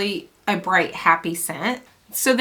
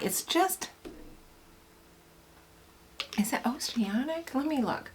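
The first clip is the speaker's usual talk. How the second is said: much softer aside to herself; muttering; 5 semitones higher, 12 dB quieter than usual. Real, not acted. Vlogger checking the scent notes for herself: soft muttering. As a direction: mumble it while checking the label.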